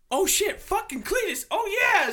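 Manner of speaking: high, loud mock cheering; imitated holler. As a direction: holler the lines through the house. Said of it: "we kept hollering out".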